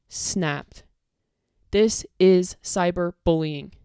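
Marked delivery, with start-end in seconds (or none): 1.7-3.7 angry slow accusation. Real, not acted.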